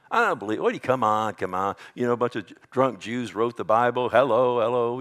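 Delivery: lightly imitated scoffer; mocking. Preacher imitating people who mock God, mild scoffing. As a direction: toss it off as a mild jeer. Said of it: "you've heard people mock God".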